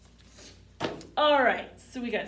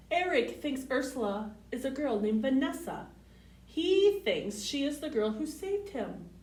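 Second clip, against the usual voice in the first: clear, sing-song storybook read; picture-book read-aloud voice; reading to children. Acted.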